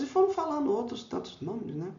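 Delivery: ordinary talk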